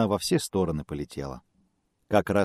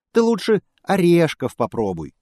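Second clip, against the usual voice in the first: higher, louder squeak; squeaky squirrel; 11 semitones higher, 7 dB louder than usual. A narrator's reading. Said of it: "пищит белка". (белка пищит, советуя орешки)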